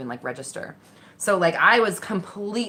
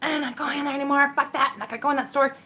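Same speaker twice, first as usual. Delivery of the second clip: stubborn refusal; 7 semitones higher, faster than usual. Retold or imitated. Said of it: "And I was just like".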